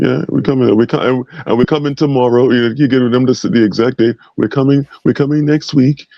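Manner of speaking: a loose impression announcing an attack, stumbling and restarting; Trump. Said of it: "I meant your impersonation".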